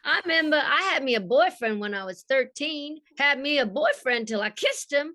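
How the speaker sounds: playful Southern belle recalling a tragic kiss; Rogue. Acted. Acts Rogue's line for the host.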